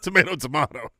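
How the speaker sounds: "Tomato, tomato" with differing middle vowels; two pronunciations. Shown as a demonstration. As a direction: say "tomato" as to-MAY-to, then to-MAH-to. Contrasting two pronunciations, idiom.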